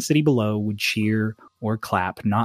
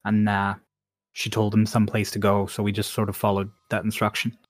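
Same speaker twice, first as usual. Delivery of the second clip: put-on Cockney accent. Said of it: "best Cockney accent".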